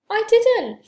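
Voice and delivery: loud, high protest; indignant high-pitched cry; cried out. A narrator's reading. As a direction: wail a denial of blame. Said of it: "Franklin cried".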